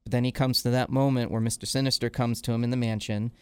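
ordinary delivery

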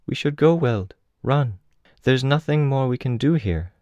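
put-on high-pitched girl with a Russian accent; gentle Russian-accented young woman's voice; soft Russian accent. A narrator's reading. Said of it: "her voice harboring a soft Russian accent".

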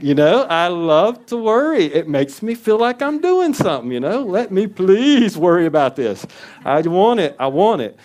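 a hammed-up whiny voice, pitched high and loud; whiny worrier. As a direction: play a childish worrier begging to keep it. Mock voice of worrying self.

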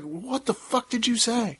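high, slow mock angry Scots growl; angry Scottish accent. Family back home greeting him, mock angry Scots. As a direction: bark it like an angry Scot. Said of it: "it's a very angry dialect".

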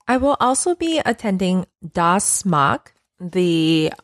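awful put-on German accent.

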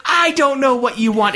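high, exasperated mock cry; acted desperate protest. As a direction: plead bewilderment at a high pitch. Victim pleading in retold quarrel.

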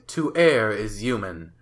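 mock sage. Mock proverb reading.

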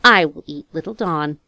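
breathy ogress whisper, no voice; a wicked queen whispering her cruel wish; sinister whisper. Acted. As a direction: hiss the order like a secret. Ogress queen orders child cooked.

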